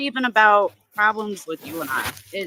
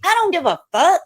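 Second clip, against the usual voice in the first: angry outburst; 8 semitones higher than usual. Real, not acted. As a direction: spit it out furiously. Furious rant about messages.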